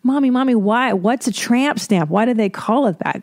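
mother voicing her son asking about tattoos; imitating her son. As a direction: ask like a small nosy boy. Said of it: "I can't wait to tell my son".

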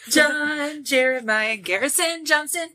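repeating the name through laughter; laughing. Real, not acted.

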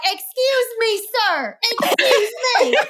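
put-on high, polite Southern accent, laughing at the end; mock Southern accent, amused and affectionate. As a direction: imitate a friend's Southern accent calling out politely. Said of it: "in her Southern accent".

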